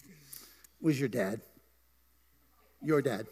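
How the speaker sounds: drawn-out, pointed reveal; slow teasing reveal. Real, not acted. Pastor teasing Troy about his dad, slow and pointed. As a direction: lean on it slowly to tease him.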